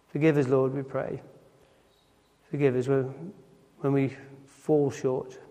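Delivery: hushed, humble prayer voice; closing prayer. Acted. Preacher closing the service in prayer to God, hushed.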